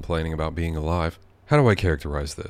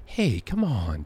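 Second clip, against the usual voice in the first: imitating Joe Biden to the guys, hushed; Joe Biden impression; 5 semitones higher, much slower than usual. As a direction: do a gentle Joe Biden "come on". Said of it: "doing Joe Biden".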